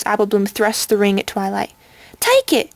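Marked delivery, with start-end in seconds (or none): 2.2-2.7 terrified shout. A narrator's reading. Filly thrusting the ring at Twilight, terrified shout. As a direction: beg her in panic to take it. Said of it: "she shouts, terrified".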